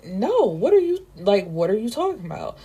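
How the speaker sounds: mock shocked protest, voice rising; incredulous outburst. Cameron incredulous, upset at Rule.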